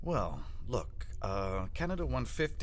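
well look opener. Shown as a demonstration. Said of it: "try it with the "well, look," and throw in an "uh".

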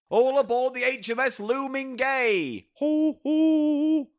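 gruff cartoon sailor voice. Popeye sailor voice bit.

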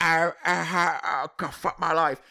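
mock glum, halting greeting; downbeat co-host impression. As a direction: lightly imitate a defeatist, groaning along. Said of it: "It's like the upbeat version of you".

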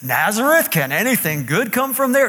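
a light sneer on Nazareth, lifted on there; sarcastic skepticism. Shown as a demonstration. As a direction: demo a mildly scoffing doubt. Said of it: "I wanna hear how you think Nathanael said this".

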